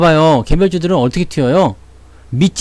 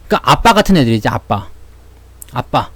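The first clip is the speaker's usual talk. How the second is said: ordinary delivery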